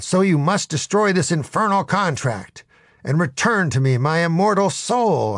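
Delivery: high, grandly theatrical demand; insistent. Acted. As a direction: insist like a melodramatic hero. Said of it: "I insisted".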